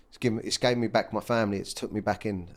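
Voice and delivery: crying. Real, not acted. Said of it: "I can't believe I'm crying".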